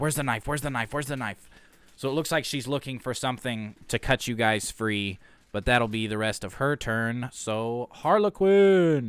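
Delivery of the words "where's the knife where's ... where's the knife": fast, rattled-off muttering under the breath. Voicing a character searching a table, muttering under her breath. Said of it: "you hear under her breath".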